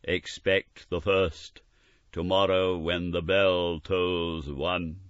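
slow, measured ghostly voice; a hint of solemn prophecy; slow grave spirit. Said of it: "said the ghost".

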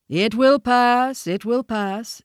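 high, drawn-out elephant voice; Hati the elephant, reassuring. A narrator's reading. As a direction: intone the reassurance slowly.

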